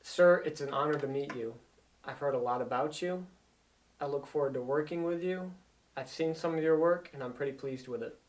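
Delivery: steady, composed greeting; composed hello to a respected new colleague; calm and collected. Shown as a demonstration. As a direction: greet him evenly, no rush. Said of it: "I was calm".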